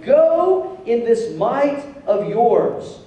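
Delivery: very slow, weighty charge; slow, emphatic commissioning; God's command. Acted. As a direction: stretch each word as a solemn order. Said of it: "he said to Gideon".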